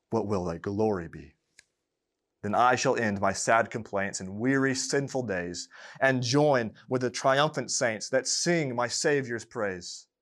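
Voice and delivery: solemn recited verse, rising in the middle; poem reading. Acted. Preacher closing the sermon with Baxter's poem, solemn recitation. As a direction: read the hymn as a prayer.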